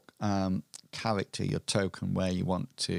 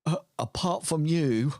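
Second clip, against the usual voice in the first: higher character voice; NPC voice; 6 semitones higher than usual. Acted. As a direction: voice the lost boy. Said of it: "and he says".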